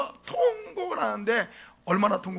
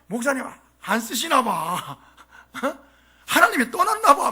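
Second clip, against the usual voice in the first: mock naysayer; 3 semitones higher than usual. Church member jinxing the pastor, hammed-up gloom. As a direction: ham up the doom-saying jab. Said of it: "재수없게 말하는 사람이".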